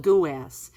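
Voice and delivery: "goo ass" in New York style, a clear goo and a flat ass; "goo ass" said two syllables apart like New Yorkers do; New York pronunciation. Real, not acted. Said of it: "my New York accent".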